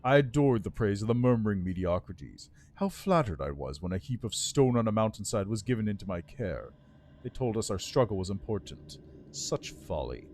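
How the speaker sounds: lightly voiced bitter undead lord; resentful lich, words held tight. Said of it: "Grinding his teeth, the Lich answers".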